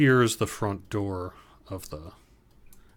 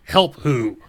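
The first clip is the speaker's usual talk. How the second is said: loud, higher, hostile refusal; angry guard; 9 semitones higher, 7 dB louder than usual. Acted. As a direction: send the strangers away. GM voices hostile door guard.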